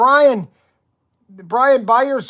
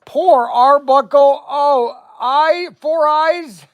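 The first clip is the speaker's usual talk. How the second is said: hammed-up sobbing voice, much higher; mock crying; 9 semitones higher, 4 dB louder than usual. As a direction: pretend to be on the verge of tears. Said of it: "I'm gonna cry".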